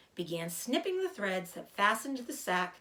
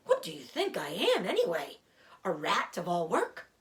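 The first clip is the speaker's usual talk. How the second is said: put-on smug, aggrieved old rat; boastful rat voice; 3 dB louder than usual. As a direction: brag like a put-upon rat. Rat brags to Wilbur.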